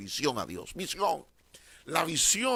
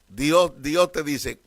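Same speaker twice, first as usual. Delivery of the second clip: preaching loud; 9 dB louder, slower than usual. Real, not acted. Preaching builds to loud emphasis.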